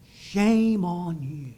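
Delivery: slow, scolding shame; slow accusing. Retold or imitated. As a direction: drag out the reproach. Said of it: "they usually do it like this".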